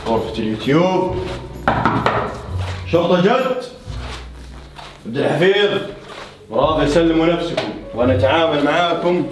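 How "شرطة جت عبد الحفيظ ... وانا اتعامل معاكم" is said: police announcement. Pretend. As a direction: announce it like a raiding cop. Playing police raid.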